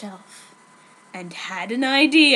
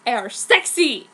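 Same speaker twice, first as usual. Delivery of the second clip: mock seductive; 4 dB louder than usual. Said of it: "he said".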